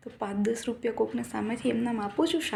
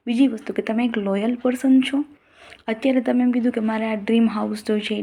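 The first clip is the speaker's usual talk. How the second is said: louder, driving emphatic lecture; fervent preaching; 8 dB louder than usual. Real, not acted. Vlogger scolding followers about gratitude, loud fervent preaching. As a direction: press the point home like a sermon.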